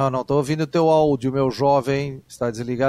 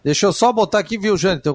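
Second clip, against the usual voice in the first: higher, louder call to a colleague; to someone hard of hearing; 5 semitones higher, 3 dB louder, faster than usual. Real, not acted. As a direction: speak up so he can hear. Chamando colega com áudio ruim. (chamando alto o colega)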